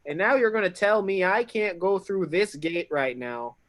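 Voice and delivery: mock Canadian bluster at the guard; Canadian accent. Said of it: "I am not from Fantasy Canada".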